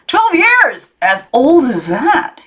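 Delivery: high, then slowed in mock awe; mock astonishment. A narrator's reading. Uncle teasing niece about her age, mock astonished. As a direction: ham up the shock.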